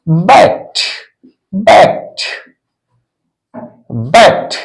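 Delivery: बैक्ट as "bakt", released T at the end; final -ed as T. Shown as a demonstration. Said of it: "ट के समान होगा".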